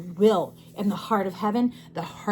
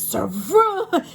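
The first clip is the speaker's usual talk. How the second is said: calling out; 7 semitones higher, 5 dB louder than usual. Retold or imitated. She calls out a name.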